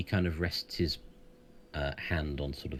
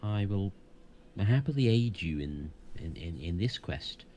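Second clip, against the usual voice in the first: wise centaur, raised and solemn; proud voice with horse snorts; 5 semitones higher than usual. Acted. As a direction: speak as a proud, ancient centaur. GM holds the centaur's voice.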